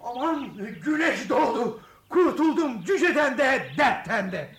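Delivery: relieved laugh. Acted. Relief at sunrise.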